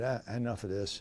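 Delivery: ordinary delivery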